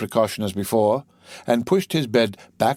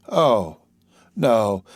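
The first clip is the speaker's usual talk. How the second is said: crying out; 3 dB louder, much slower than usual. Acted. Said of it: "cried Dantes".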